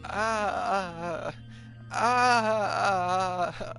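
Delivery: high, loud, screaming panic; screaming terror. Acted. Victim to the attacker, screaming and begging for help. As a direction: scream and beg as he comes at you.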